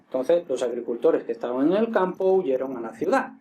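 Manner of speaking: "los agricultores que estaban en el campo huyeron a la ciudad" in one breath, no pauses; all in one go. Shown as a demonstration. Teacher shows students the sentence read without commas, all in one go. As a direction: run the whole sentence together without a break. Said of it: "todo del tirón".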